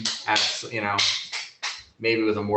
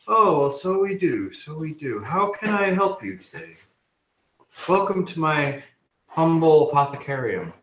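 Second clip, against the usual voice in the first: higher-pitched, lilting gnome voice; gnome shopkeeper; 5 semitones higher than usual. Acted. Gnome greets customers in the shop, obliging higher voice. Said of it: "the gnome turns around".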